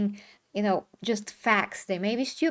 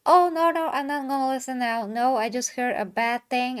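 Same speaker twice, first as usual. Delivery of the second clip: mock refusal; 2 semitones higher, 4 dB louder than usual. Mimicking people who won't listen to context, mock refusal. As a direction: imitate someone hastily shutting out an argument.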